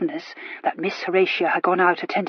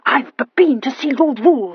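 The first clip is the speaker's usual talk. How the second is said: high, loud stammering announcement; girl announcing her visit to Lord Rule, stammering; 4 semitones higher, 5 dB louder than usual. A narrator's reading. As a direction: stammer it out proudly. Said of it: "she announced".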